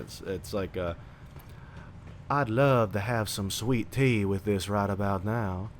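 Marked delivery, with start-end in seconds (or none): 2.3-5.7 slow, lightly done Georgia drawl; old-timey Georgia accent. Shown as a demonstration. Wanting sweet tea, slow demo of old-timey Georgia accent. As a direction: draw it out like old-time Georgia. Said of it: "that old-timey Georgia accent".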